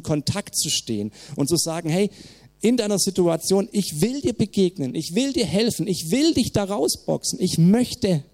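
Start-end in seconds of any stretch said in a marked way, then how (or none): 1.9-8.2 God's invitation. Retold or imitated. God speaking to us.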